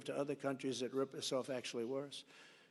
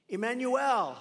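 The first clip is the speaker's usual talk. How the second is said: greeting call; 6 semitones higher, 7 dB louder, slower than usual. Retold or imitated. Calling Macron on the phone.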